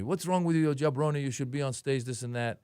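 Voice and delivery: a mild, half-hearted telling-off as the Sheik; lightly voiced Iron Sheik, held back; moderate scolding. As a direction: scold without real heat. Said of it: "Kinda moderate".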